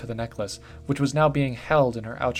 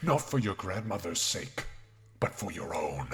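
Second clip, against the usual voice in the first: tempting spirit whisper; 3 dB quieter than usual. Acted. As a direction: coax her like a voice in her head.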